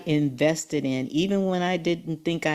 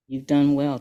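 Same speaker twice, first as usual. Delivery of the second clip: God's voice; 3 dB louder than usual. Retold or imitated. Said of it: "that was God telling me".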